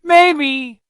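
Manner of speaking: high, drawn-out reluctant maybe; dragon's maybe. A narrator's reading. Dragon answers the boy, a high reluctant maybe. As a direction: give in a little, teasing. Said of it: "said the dragon".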